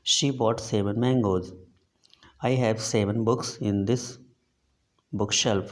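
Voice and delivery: each word read out very slowly and evenly; slow dictation reading. Shown as a demonstration. Teacher reading an example to the class, slow and deliberate.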